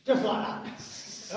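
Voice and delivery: slow breathy Tommy Cooper impression; Tommy Cooper catchphrase. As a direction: stretch the catchphrase out slowly. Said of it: "I'm gonna do it like Tommy Cooper".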